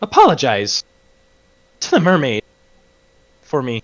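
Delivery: high, swooping crackle. Voicing a character speaking with the last traces of Candlefoot's voice: last crackly traces of Candlefoot's voice. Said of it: "in the last vestiges of Candlefoot's voice".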